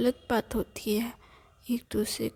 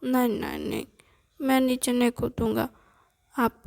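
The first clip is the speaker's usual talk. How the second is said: put-on scared child; 5 dB louder than usual. Boy begs his grandmother to lift him down, scared.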